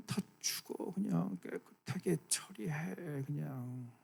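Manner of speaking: soft, unvoiced, slow threat; imagined God, whispered judgement; menacing whisper. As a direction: breathe it out coldly. Imagined angry God muttering.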